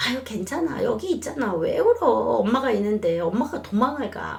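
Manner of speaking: put-on mom soothing a crying baby, voice rising high on 왜 울어; comforting mom. Shown as a demonstration. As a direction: hug the child and coax, pitch jumping up. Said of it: "엄마가 이렇게 아기를 안고".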